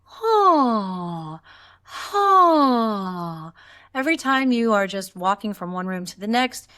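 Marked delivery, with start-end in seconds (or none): 0.0-3.5 open-throated sighing ha; yawning sigh. Shown as a demonstration. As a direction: loose sighing ha sounds. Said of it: "walk around the house throughout the day going".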